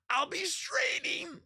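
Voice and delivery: sung way up high, slow; straining high. Shown as a demonstration. Streamer demonstrating his strained high notes, slow and very high. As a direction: push up to a strained top note. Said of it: "I think I can maybe get to the high notes".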